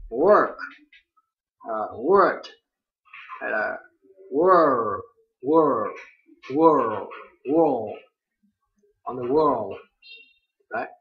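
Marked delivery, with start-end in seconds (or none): 4.3-9.7 world with a loud curled R; loud drill of world; R vowel drill. Shown as a demonstration. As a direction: repeat world, curling the R. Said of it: "học phát âm cái âm ơ".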